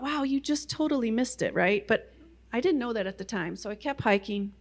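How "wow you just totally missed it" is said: self-mocking. Mocking herself.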